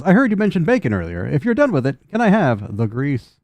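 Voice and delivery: lightly voiced stinky robot; weird robot. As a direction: ask for the grease like a strange machine. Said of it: "stinky robot goes".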